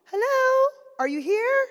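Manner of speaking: hello called out upstairs; calling out. Retold or imitated. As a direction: call out to find someone. Calling out to someone in house.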